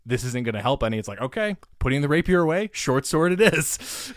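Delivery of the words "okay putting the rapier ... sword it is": excited. Retold or imitated. Retelling his own choice in combat.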